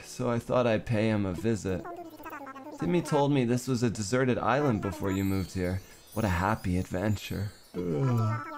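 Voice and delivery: lightly voiced drowsy villager; a hint of sleepiness, unhurried; sleepy voice. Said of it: "so I'm giving him a sleepy voice".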